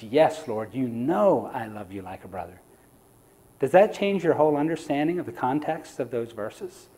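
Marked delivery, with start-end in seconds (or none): 0.0-2.6 much lower and softer, a subdued reply; humbled Peter. Retold or imitated. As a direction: give the answer quietly, as if ashamed.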